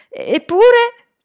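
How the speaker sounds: slow, high, loud stammered objection; faltering rebuttal. A narrator's reading. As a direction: try to argue back, stumbling at the start. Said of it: "cercò di ribattere Salman". (replica esitante)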